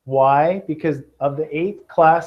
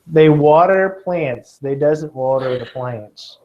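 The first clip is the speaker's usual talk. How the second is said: slow, playful Kentucky drawl with folksy grammar; a hint of a southern drawl; joking southern accent; slower than usual. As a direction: ham up the country talk to tease the student. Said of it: "to hear my southern accent more".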